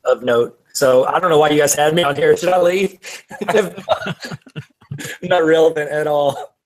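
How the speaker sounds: glitchy robotic connection; words breaking up like a robot. Real, not acted. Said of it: "sounding more and more like a robot".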